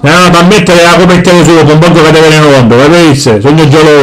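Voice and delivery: low, heavy father voice; gruff Sicilian dad. Acted. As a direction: boom it out like a grumpy papà. Father again.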